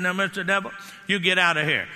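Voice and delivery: authoritative, stern order; firm command. Retold or imitated. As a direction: throw the devil out with authority. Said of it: "they have to hear authority in your voice".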